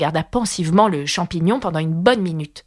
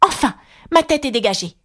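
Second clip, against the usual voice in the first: delighted; 4 semitones higher than usual. Acted. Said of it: "s'exclama-t-elle d'un ton ravi".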